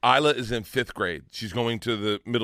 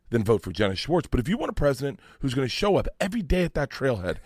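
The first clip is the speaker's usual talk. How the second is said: reenacted campaign speech. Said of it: "This is almost verbatim in my speech".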